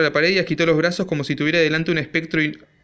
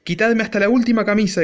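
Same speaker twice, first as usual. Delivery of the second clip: shrill shout; 6 semitones higher than usual. A narrator's reading. Father yelling at his family over money, high shrill shout. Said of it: "gritaba con voz aguda".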